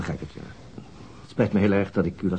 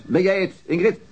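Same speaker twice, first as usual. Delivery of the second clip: shouting into the phone; 10 semitones higher, slower than usual. Acted. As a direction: call it out as if over a bad line. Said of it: "Waarom schreeuw je?".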